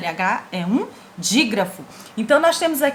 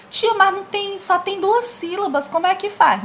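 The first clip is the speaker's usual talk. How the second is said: higher-pitched mock student question; imitating a pupil; 8 semitones higher than usual. Teacher acts out a pupil asking about two-syllable words, puzzled higher voice.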